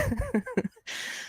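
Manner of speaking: high, soft laugh trailing off; high giggle. Real, not acted. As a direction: giggles at herself. Laughs after sushi quote.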